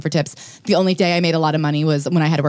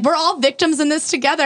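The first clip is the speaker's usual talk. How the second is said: much higher, hammed-up plea for solidarity; mock pleading; 10 semitones higher than usual. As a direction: mimic her fake-innocent appeal. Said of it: "being like".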